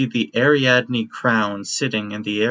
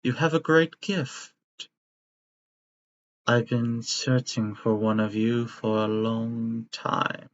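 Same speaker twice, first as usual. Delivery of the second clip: sinister doctor. Acted. GM voices bird-skull doctor.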